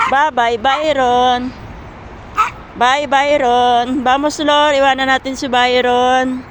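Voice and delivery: slow, drawn-out teasing farewell; teasing goodbye. Real, not acted. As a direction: stretch the goodbye to tease the dog. (pang-asar na paalam, mabagal at pahaba)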